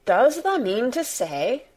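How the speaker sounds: high-pitched, incredulous question; amazed cry. A narrator's reading. Martha astonished by Mary, amazed cry. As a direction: cry it out in wonder. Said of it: "cried Martha with wide-open eyes".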